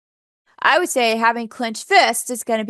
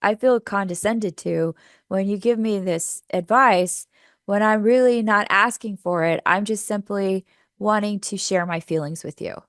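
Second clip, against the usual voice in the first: calm assertive I statement. Shown as a demonstration. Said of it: "You might even start off with".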